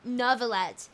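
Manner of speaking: "Neuvillette" as if spelt with an R that stays silent; British reading. Shown as a demonstration. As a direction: say "Neuvillette" British-style, R unpronounced. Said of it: "as if you maybe put, like, an R".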